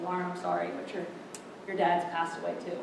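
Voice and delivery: soft, halting delivery of bad news; retold grave news. Uncle tells his niece of a death, hushed and halting. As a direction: break it gently, pausing before the worst.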